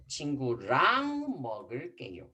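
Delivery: fast, clear model sentence for the class; model sentence for repeating. Shown as a demonstration. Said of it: "try to say everyone".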